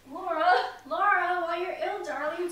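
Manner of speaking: loud, high call; alarmed call. Acted. Mother calling to Laura as she falls ill.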